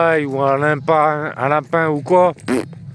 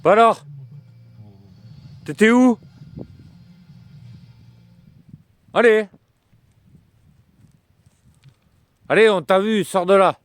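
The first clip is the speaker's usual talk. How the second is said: coaxing the dog; 4 semitones higher than usual. Real, not acted.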